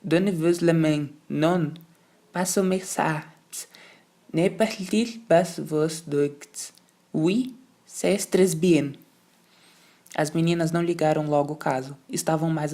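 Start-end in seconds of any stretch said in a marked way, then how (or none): 0.0-8.9 slow, stern governess orders in French; commanding French governess. Acted. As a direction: give the girls orders, word by word. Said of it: "Mademoiselle ordenou".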